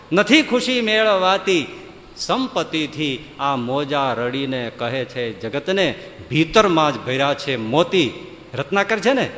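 slow, grave chant of a maxim; solemn proclamation. Acted. Guru teaching the disciple, a slow solemn intonation. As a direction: intone it slowly like a sacred saying. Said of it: "આ સંદેશો આપે છે".

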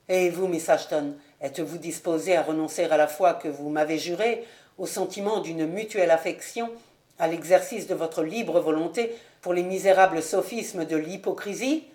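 lightly voiced solemn young nobleman, a little low; restrained, earnest demand of a betrothed; grave wronged suitor. Ravenswood pleads with Lucie. (fiancé grave et contenu)

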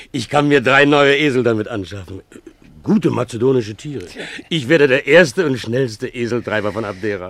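eager excitement. Acted. Dreams of buying new donkeys.

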